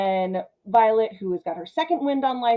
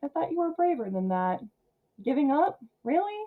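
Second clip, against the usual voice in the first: taunting creature voice; 6 semitones higher, 4 dB quieter than usual. Retold or imitated. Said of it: "the face is like".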